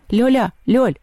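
loud high calls down a corridor; calling out. A narrator's reading. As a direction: shout her name into the dark. Антон зовёт пропавшую. (Антон громко зовёт Лёлю)

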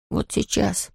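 unvoiced inner whisper; whispered thought. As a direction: whisper it to yourself. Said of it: "подумал Том".

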